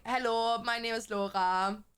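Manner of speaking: lightly acted accent as a German abroad; put-on accent, introducing herself. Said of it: "go there and be like".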